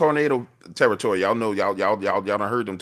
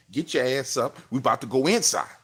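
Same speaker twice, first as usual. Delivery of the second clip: urgent order; 4 semitones higher, 3 dB louder than usual. Retold or imitated. Urging gym friends to get inside.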